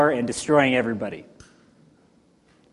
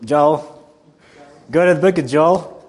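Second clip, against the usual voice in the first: stretched, louder Southern drawl on Joel; 3 dB louder than usual. Shown as a demonstration. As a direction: lean hard into the Southern drawl. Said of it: "now you hear it".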